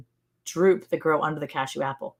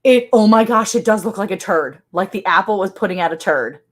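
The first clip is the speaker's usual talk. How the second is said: excited disgust; 3 semitones higher, 5 dB louder than usual. Real, not acted. Grossed out discovery.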